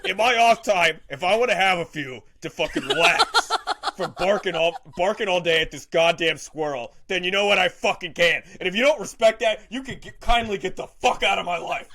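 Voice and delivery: a dog defends its drinking, hammed up; defensive drunk dog rant. Dog tells off its owner, mock indignant. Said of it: "he's like".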